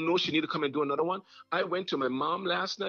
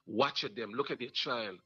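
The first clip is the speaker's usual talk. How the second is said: bragging sorcerer; 6 semitones lower than usual. Retold or imitated. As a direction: gloat low like a witchdoctor counting his victims. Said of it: "This is how bad people in the Obeah world brag".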